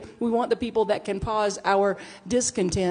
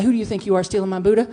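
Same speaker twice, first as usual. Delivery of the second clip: louder, fast mock confrontation; angry confrontation; 7 dB louder, faster than usual. Imagining knocking on the thief's door, fast, loud mock scolding. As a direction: rattle it off like telling off the thief. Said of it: "I'm gonna say".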